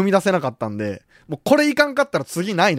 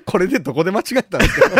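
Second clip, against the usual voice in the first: trying not to laugh; 3 semitones higher, faster than usual. Real, not acted. Laughs at host's name mistake.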